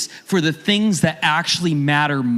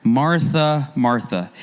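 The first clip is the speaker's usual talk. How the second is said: compassionate; 4 semitones lower, slower than usual. Retold or imitated. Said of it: "speaking with compassion and not condemnation".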